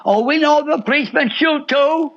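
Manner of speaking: usual speaking voice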